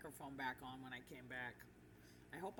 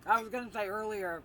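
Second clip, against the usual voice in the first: chewing while talking; 7 dB louder than usual. Real, not acted. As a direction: mouth full of peanuts. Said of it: "I'm munching my peanuts".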